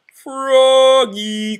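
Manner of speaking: high loud call from afar. A narrator's reading. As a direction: call him from across the room. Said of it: "called his teacher".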